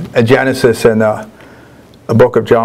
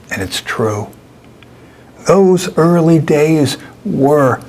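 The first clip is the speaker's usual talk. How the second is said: lifted, higher-pitched recital, slow on key lines; poetry reading; 4 semitones higher, slower than usual. Acted. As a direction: savor the verbs, pause between images. Reads his poem aloud.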